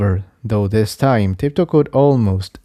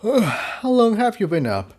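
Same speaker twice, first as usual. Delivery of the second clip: put-on higher, soft young pony voice; Jigsaw voice; 11 semitones higher, 4 dB quieter than usual. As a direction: voice the sleepy colt.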